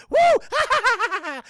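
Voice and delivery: high, loud whooping with laughter; rowdy whoop. Retold or imitated. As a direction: whoop it up like a taunting gang. Voicing bikers whooping behind victim.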